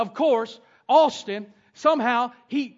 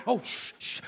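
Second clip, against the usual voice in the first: shushing; 7 dB quieter than usual. Retold or imitated. Father shushing toddler.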